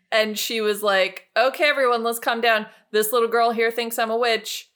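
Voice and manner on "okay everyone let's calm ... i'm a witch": a touch raised, addressing everyone; mildly acted calming of a crowd; lightly voiced announcer. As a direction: settle the room, a little louder. Acts aunt calming the crowd.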